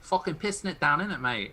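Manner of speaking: attempted Cockney with a Northern tinge; Cockney accent. Shown as a demonstration. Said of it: "show us your Cockney accent".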